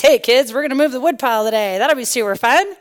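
cheerful mom selling a chore, quick in the middle; rally the little ones lightly; upbeat mom. Retold or imitated. Mom pitching the wood pile to her kids, upbeat.

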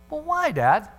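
put-on whiny kid. Kid whining at dad.

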